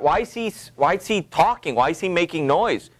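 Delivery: a hint of an annoyed wife; exasperated Lady Macbeth. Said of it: "And so she's".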